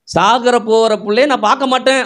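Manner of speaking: Hagar's despair. Retold or imitated. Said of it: "ம்".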